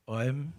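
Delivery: OM as a drawn-out gliding diphthong; Tibetan monks' Om. Shown as a demonstration. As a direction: demonstrate Om the Tibetan way, gliding like "oem". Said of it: "If you hear the Tibetan monks do it".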